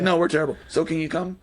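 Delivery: lightly voiced Michael Cera, laughing through it; a hint of awkward, sheepish Michael Cera; Michael Cera impression. Podcaster mimicking Scott's line to Ramona, amused and sheepish. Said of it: "the way Michael Cera does that".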